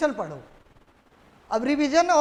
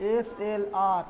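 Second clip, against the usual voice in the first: dictating; 3 semitones lower, much slower than usual. Real, not acted. Teacher dictating list of terms.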